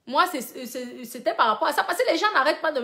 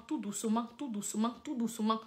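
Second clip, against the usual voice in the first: hushed, lower repetitions; gently, softly; 3 semitones lower, 13 dB quieter than usual. Real, not acted. Advising listeners to start little by little, very softly. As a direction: drop right down, soft and even.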